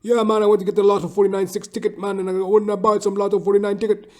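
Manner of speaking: high, loud, fast Caribbean buddy voice; hammed-up friend of the barber; barber's friends. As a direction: rattle off the lottery talk in caricature. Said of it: "his wonky little friends come".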